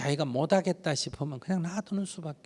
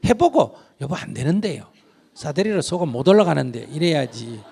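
humble wife's apology. Retold or imitated. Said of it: "남편한테 매일 엎드려 절하면서".

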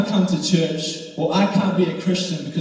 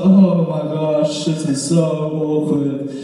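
mock embarrassment. Walk of shame past onlookers.

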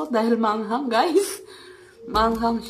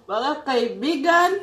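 laughing; 3 semitones higher than usual. Real, not acted. Laughing at runny nose.

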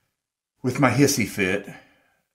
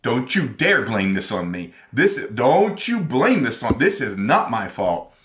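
retold angry protest, rising louder; angry retort; 3 semitones higher, 4 dB louder than usual. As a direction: reenact an angry comeback, getting louder. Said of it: "I got so angry".

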